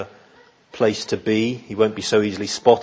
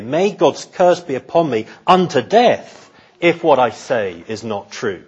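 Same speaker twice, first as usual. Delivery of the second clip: vehement oath; 2 semitones higher than usual. Acted. Peter invokes a curse on himself, vehement and solemn. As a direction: call the curse down on yourself. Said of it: "his most vehement and vigorous".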